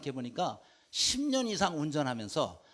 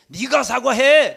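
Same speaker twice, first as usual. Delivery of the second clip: 네가 사과해, louder and higher, slow; loud demand; 8 semitones higher, 14 dB louder, slower than usual. Acted. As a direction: insist angrily that the other apologize first. Acted quarrel demand. (큰 소리로 따지듯 요구)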